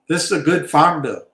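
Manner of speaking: hammed-up folksy politician plea; George W. Bush. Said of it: "George W. Bush".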